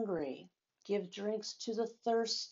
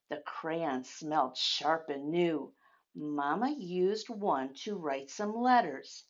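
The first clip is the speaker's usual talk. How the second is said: story narration. A narrator's reading. Reading picture book aloud.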